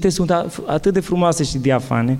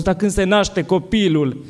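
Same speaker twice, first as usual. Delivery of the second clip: raised, slow and earnest, peaking on nu; fervent quote of a spiritual father, much higher; quoting a wise priest; 5 semitones higher than usual. Retold or imitated. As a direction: build with fervour, nu ţipă high. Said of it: "le-a dat un răspuns foarte frumos".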